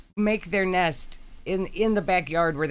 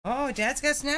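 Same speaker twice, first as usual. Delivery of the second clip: pet talk voice; 7 semitones higher than usual. Real, not acted. Talking to the pet dog.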